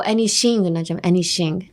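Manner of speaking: anything said very slowly, the tongue pushed forward for the th; slow, careful. Shown as a demonstration. The teacher slowly models anything for learners, tongue forward on th. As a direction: draw out anything, tongue clearly between the teeth on th. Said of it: "You guys need to use your tongue more".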